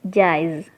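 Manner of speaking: "Jize" said alone with a j sound, rhyming with "eyes"; g dibaca j. Shown as a demonstration. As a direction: isolate the last syllable "Jize" as jaiz. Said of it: "G-nya dibaca J". ("Jize" dilafalkan jaiz dengan bunyi j)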